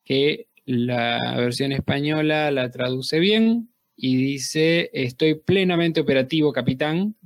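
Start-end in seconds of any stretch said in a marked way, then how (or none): 4.9-7.1 lightly voiced robot; a hint of a monotone machine; old speech synthesizer. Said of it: "en voz de robot". (voz de robot apenas marcada)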